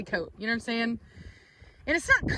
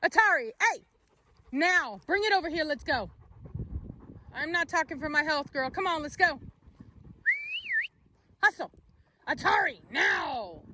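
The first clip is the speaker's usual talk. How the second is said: higher firm command; calling the dog; 5 semitones higher than usual. Real, not acted. Owner sternly calling her dog to come. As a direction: order the dog over.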